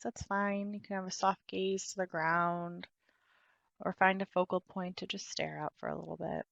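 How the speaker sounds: unhurried guiding voice with long pauses; guided meditation. Real, not acted. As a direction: guide them into stillness, leaving space between phrases.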